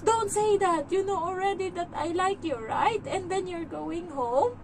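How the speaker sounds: high-pitched mock-hurt little voice; imitated upset child. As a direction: mimic a child pleading not to be left. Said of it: "Sabi niya sa akin".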